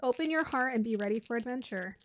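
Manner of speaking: ordinary talk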